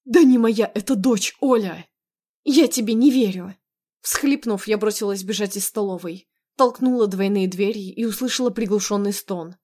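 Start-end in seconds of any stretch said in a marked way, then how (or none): 0.1-3.6 raised, emphatic protest; mildly shouted denial and disbelief; heated argument. Acted. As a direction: fire it back with a louder attack. Husband and wife shout denials.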